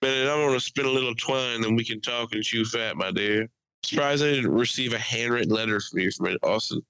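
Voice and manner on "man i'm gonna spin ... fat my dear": hammed-up southern charm; southern accent. Friend teasing a buddy back from Texas, mock southern accent. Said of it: "I had a southern accent for an entire week".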